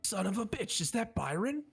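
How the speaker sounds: put-on shocked to see an old friend; high startled Son of a bitch; surprised recognition. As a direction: pitch jumps up in disbelief. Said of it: "and he goes".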